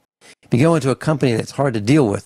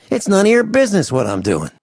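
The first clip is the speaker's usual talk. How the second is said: higher, snapping back; irritated retort; 8 semitones higher than usual. Retold or imitated. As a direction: bristle at the question. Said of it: "My visceral response is".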